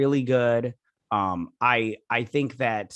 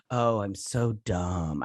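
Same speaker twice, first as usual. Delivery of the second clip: self-pitying mope; 4 semitones lower, much slower than usual. Shown as a demonstration. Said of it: "I never go like that".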